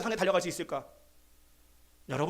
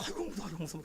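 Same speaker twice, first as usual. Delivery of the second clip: much softer, fretful quoting of a scared mother; imitating frightened mother; 3 semitones lower, 11 dB quieter, faster than usual. Preacher imitating his mother scared of the injured cat, softly frightened. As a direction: softly mimic her being scared. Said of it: "우리 어머님은 무서워도 뭐".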